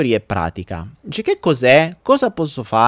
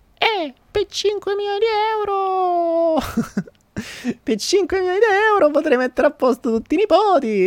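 put-on very high old granny voice, euro stretched. Telling a joke, voicing the grandmother answering her grandson, in an old person voice. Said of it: "ma come si fa la voce da vecchio?".

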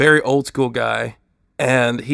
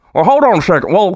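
put-on mouth-full voice, higher and louder; 6 semitones higher, 7 dB louder than usual. Voicing a co-host who has chew in his mouth: imitating talking with chew in mouth. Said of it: "he's got the chew right back in his mouth".

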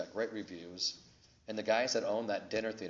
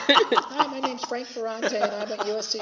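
squeaky, very high, slow, drawn-out put-on voice; 12 dB louder than usual. Retelling how someone mimics his invitation phone call, high-pitched put-on voice. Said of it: "she always does this high-pitched voice. Like".

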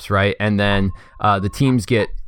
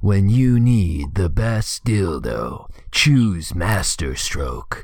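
creepy ad-announcer voice, slower. Reading out the league sponsor's ad in a scary commercial voice. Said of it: "That was a little scary".

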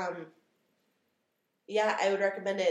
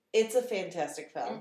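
ordinary talk

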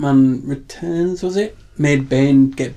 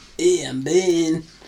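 put-on Latin American Spanish accent; 3 semitones higher than usual. Joking about how the movie villain would have sounded: Bane with a Latino accent. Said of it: "That's what he would have sounded like".

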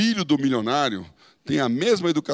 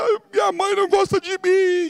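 put-on high, sniveling, tearful, whiny crying child voice; 4 dB louder than usual. Mocking a daughter's complaint that her mother doesn't love her, imitating a crying child. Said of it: "Fica chorando aí".

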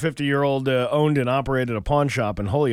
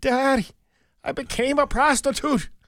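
mock very high, tearful, sobbing voice; 12 semitones higher than usual. Telling a joke, as the daughter confessing to her father: acted crying daughter. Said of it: "And the girl's crying".

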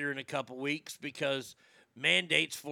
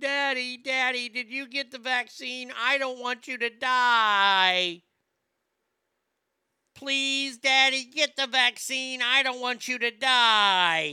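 put-on very loud, very high pleading little-girl voice; 9 semitones higher, 8 dB louder than usual. Retelling a TV commercial: imitating a little girl pleading. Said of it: "this little girl going".

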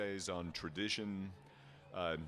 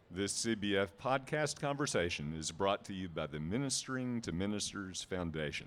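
loud radio commercial announcer voice; 5 dB louder than usual. Reading the opening line of a sponsorship script aloud for the audience: radio announcer voice. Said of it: "you have the best radio voice".

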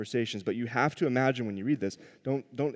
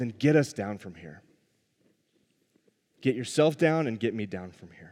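jeering, scornful, sarcastic, mocking tone. Retelling a criminal's demand to Jesus: imitating a mocking demand. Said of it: "It's mockery".

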